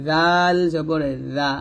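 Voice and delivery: জাল light, tongue tip on upper teeth; thin th-like buzz in জাল; thin zal. Shown as a demonstration. Teacher placing tongue tip for learners, thin zal. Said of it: "পাতলা করে".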